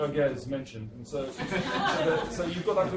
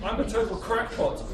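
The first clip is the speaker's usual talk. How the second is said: laughing through it, higher; gleeful self-mockery; cackling; 6 semitones higher than usual. Baron confessing to the writer, laughing higher. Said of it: "he cackled".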